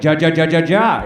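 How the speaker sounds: hammed-up Latino online laugh; mock Spanish laugh. Comic mocking the crowd's expected laugh, a hammed-up "ja ja". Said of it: "I'm surprised you're not all like".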